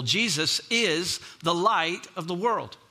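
"is" drawn out and set apart; slow down and lean on "is"; stress on IS. Real, not acted. Preacher stating the simple application, stress on "is". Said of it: "I put emphasis on is".

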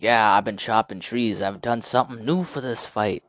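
a hint of a boastful boxer; playful mock boxer swagger; Ali impression. Imitating Muhammad Ali boasting.

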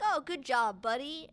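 super fake praise. Jim bullying Edward with super fake praise. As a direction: imitate a bully's insincere congratulations. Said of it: "super fake towards him".

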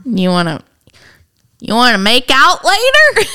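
hammed-up sexy come-on; sultry narrator. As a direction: lay on a cheesy seductive voice. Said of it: "With that voice and everything".

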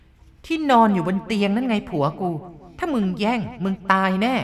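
threatening ghost. Acted. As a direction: menace her. (ผีขู่ช้าๆ เสียงดัง)

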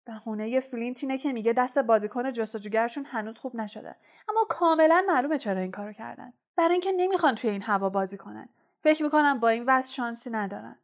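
angry through teeth. Acted.

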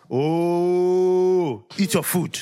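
hammed-up grandma waving the question away; dismissive grandma. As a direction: brush it off like a flustered grandmother. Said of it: "And grandma's like".

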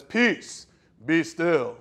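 a hint of a booming Jesus; booming command. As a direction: command the storm grandly. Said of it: "with a booming voice says".

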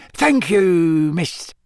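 high, grateful squeak; Dobby the house-elf. A narrator's reading. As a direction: gush thanks in a high elf voice. Dobby thanks Hermione.

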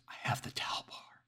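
soft breathy whisper. Acted. Hiding caller telling the dispatcher her weapon, whispering.

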